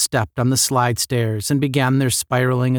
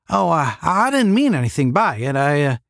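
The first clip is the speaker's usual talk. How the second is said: flustered Southern backpedal, pitched up; hasty, embarrassed apology; 4 semitones higher than usual. A narrator's reading. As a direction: stumble into an apology and break off. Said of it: "hastily added".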